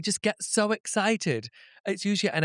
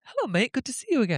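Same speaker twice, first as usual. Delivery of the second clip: chummy hello, pitched up; put-on familiar cheer; acted friendly greeting; 7 semitones higher, faster than usual. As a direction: greet someone as if you know them. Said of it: "I call everyone mate".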